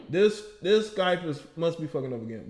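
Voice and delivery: normal talking voice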